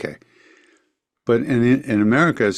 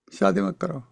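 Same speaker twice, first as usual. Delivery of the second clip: lightly voiced, high, by-the-way warning; offhand warning; 9 semitones higher, 4 dB quieter, faster than usual. Guru casually warning against marriage, high and offhand. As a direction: toss it off as a passing remark. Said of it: "Just very, like, by the way".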